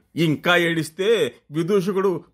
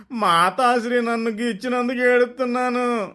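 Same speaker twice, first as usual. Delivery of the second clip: crying prince; 8 semitones higher than usual. Acted. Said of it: "యువరాజు ఏడుస్తూనే".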